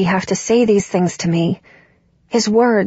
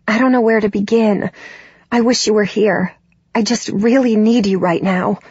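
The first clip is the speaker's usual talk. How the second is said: trembling voice; 2 semitones higher than usual. Acted. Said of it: "My voice trembles as I try hard not to cry".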